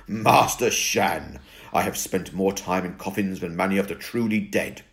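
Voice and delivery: lightly voiced old vampire, calm and slow; a hint of a grave old vampire asking; Crepsley's vampire voice. Crepsley role voice.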